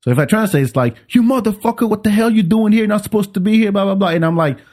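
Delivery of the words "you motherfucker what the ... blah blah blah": high-pitched mock indignant scolding; mock cursing. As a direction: imitate an angry man cursing, without shouting. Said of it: "the dude start cursing at me in French".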